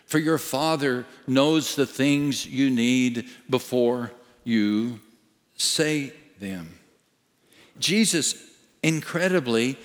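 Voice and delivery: ordinary talk, nothing marked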